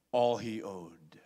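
slow, hushed whisper; dramatic sermon whisper. Acted. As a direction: breathe it out for weight.

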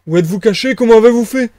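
loud, rising astonished questions; high-pitched amazement; bewildered questioning. Acted. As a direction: blurt it out, utterly baffled. Marvel baffled by invisible man.

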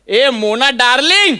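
drawn-out teasing call; stretched-out mock hail; imitated calling out. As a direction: mimic someone calling slowly from a window. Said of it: "अशी हाक मारली".

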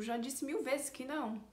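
mildly exasperated refusal; stating the obvious. Shown as a demonstration. Teacher translates the repeated refusal, stating the obvious. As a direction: treat the question as already answered. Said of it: "falei uma coisa que era óbvia".

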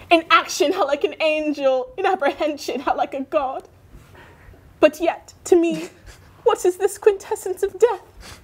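die like a stage Hamlet; mock tragic death speech. Dying dinosaur Hamlet speech.

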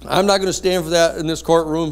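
mock stern judge; judge scolding. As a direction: lay down the law. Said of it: "he says".

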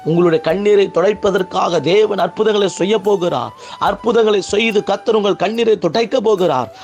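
sustained, insistent sermon cadence; fervent preaching. Real, not acted. Preacher promising believers their tears will be wiped away, fervent preaching. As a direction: press each promise home like a revival preacher.

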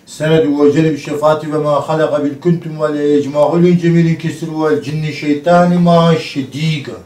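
steady chanted Arabic prayer; prayer recitation. Acted. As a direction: recite the verses in a rhythmic drone. Recites ruqya prayer over her.

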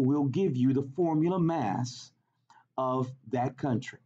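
lightly voiced Southern old lady; little old lady with a hint of Southern accent. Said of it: "she has a Southern accent".

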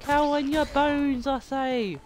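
vengeful proclamation. Pretend. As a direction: threaten them like a risen avenger. Lamb's vengeful declaration.

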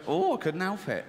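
a swooning "Oh" before "I couldn't help it"; camp ooh opener. Shown as a demonstration. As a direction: start with a breathy, theatrical "Oh". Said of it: "I wanna start that with an ooh".

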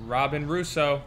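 flat, insistent full name; firm repeat. Acted. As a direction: call her name again firmly. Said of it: "Has anyone seen Robin?".

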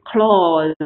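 "clause" with its long vowel held out; drawn-out vowel. Shown as a demonstration. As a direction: drag out the middle of "clause". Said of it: "这个拖得比较长". (clause：长元音拖得比较长)

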